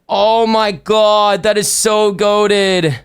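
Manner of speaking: slow, drawn-out amazed gush; marvel, stretching every word; awed delight. Real, not acted. Streamer marveling at his favorite blind box, slow awed delight. Admires the completed figure.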